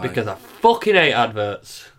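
slow and forceful, really meaning it; with passion. Real, not acted. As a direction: lean hard into every word. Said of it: "I'm saying that with fucking passion".

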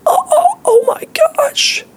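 mock horror at the test; mock panic. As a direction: act out a fake freak-out, slow and squeaky.

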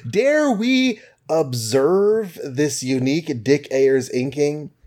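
put-on slow, grand old-comic announcer read; dramatic blurb read. Host reading the comic's cover blurb aloud, slow and grandiose. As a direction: hype up the cover copy like a vintage ad.

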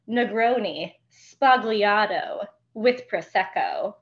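drawn out, lingering on each word; slow savoring quote. Retold or imitated. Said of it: "And then the blonde one goes".

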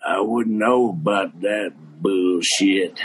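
slow, laughing mock coach brush-off; coach's retort. Coach brushing off the kid's phonetics, laughing. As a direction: dismiss it slowly through laughter. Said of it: "He looks at me and he goes".

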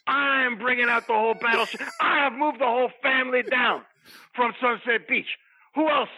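lightly played wrestler hype voice; wrestling promo. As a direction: hype up the roster. Promo character lists wrestlers.

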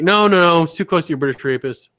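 retold quick objection; mock protest. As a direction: imitate a partner hastily objecting.

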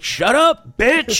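retold heckler yell. A guy behind them yelling at the woman on her phone. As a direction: call it out from behind. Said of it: "some guy behind me was like".

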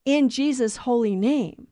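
slow, solemn prayer close; prayer ending. Shown as a demonstration. Preacher closing a prayer for listeners, slow and solemn. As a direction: intone it like the end of a prayer. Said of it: "that's why the church asks".

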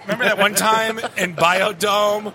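lightly voiced, awkward interviewer bit; a hint of a bumbling fan asking about a memory; Chris Farley. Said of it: "Chris Farley, right?".

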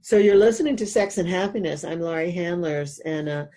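talking with a numb mouth after dental work; slightly slurred, numb-mouthed speech. Real, not acted. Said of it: "if I'm talking a little funny, it's because my mouth is still a little numb".

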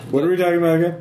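lost the thread, tipsy; town drunk. Acted. Drunk NPC forgets.

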